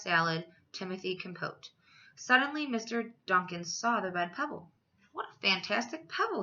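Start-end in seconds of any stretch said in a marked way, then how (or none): 5.1-6.4 bright, higher exclamation of delight; excited exclamation. Acted. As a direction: marvel at the find, a touch lifted. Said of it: "he exclaimed".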